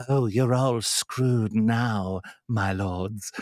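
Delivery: very slow, courtly drawl, words drawn out. Retelling a game where a prisoner speaks from his cell, in a Varys voice. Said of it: "I gave him a sort of Varys voice".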